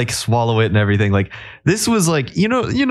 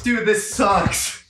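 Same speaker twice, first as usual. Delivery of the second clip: slow, talking around a soap taste; soap in mouth; 8 semitones higher, 4 dB quieter, much slower than usual. Real, not acted. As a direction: say it slowly with soap in your mouth. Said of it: "continues faking his soap exposure".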